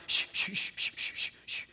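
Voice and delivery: put-on calm the hurt baby, shushing; hushing a baby.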